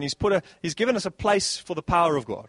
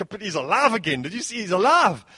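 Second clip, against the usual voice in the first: louder, higher, mock excited disciple; excited news; 3 semitones higher, 4 dB louder than usual. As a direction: burst out with the good news.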